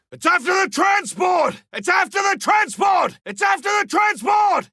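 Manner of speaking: urgent battle shouts. Acted. Hunter warning the team the generators are falling, shouting. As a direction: yell alerts to the team. Monster attacking generators and ship.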